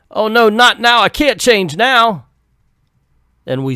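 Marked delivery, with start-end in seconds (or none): 0.1-2.2 panicked werewolf. Acted. Werewolf panicking about changing.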